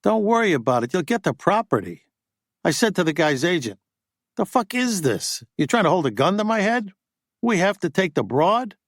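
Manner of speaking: a hint of a pushy agent griping; agent Buddy, indignant. Buddy recounting his negotiation.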